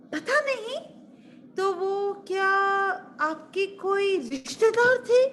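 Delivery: very high, incredulous questioning; puzzled maid. Acted. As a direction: slowly probe in disbelief. Maid puzzled by queen's ignorance. (हैरान दासी की ऊँची आवाज़)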